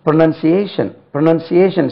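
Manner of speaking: pronunciation as "pro-nun-see-AY-shun"; pronunciation with "nun", not "noun"; correct pronunciation. Shown as a demonstration. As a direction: model pronunciation for learners, falling end. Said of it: "say correctly".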